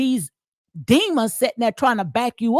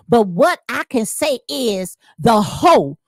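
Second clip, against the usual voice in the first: slow, punched reading of her words; mimicking a poster; 3 dB louder than usual. Reading a rival's comment aloud, mimicking her. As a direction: read it out just like she said it. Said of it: "I'm gonna say it just like she, uh, she said it".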